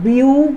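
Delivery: ब्यूटीफुल in three parts, ब्यू … टी … फुल; syllable by syllable. Shown as a demonstration. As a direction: say ब्यूटीफुल with a pause after each syllable. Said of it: "तीन हिस्सा में बंट रहा है".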